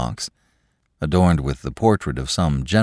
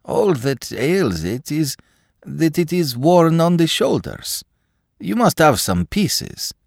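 begging for my life; 11 semitones higher, slower than usual. Acted. Akaky pleading, high.

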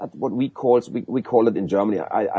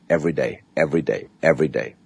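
each every day dropping lower; insistent repetition; 6 semitones lower, faster than usual. Real, not acted. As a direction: hammer home every day. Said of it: "I call every day".

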